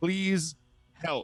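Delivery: mild, held-back, high-pitched scream. A satyr swimming toward the shore calls to the people there, screaming for help. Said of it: "And I'm just screaming".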